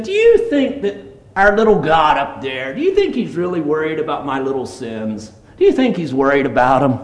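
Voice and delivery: a touch of mock disbelief; retold neighbour's scoffing question. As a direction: imitate someone airily questioning. Acts out a Costa Rica neighbour.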